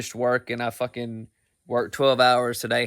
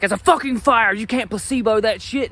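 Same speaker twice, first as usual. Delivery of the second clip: put-on a touch of a huffy old man; defensive dad; 8 semitones higher than usual. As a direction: bark back like an offended father. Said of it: "He's like".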